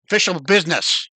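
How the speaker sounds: a hint of a stiff official hobgoblin; lightly voiced soldier, reciting orders. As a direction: goblin guard insists, faintly voiced. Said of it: "the female hobgoblin holding the sprayer says".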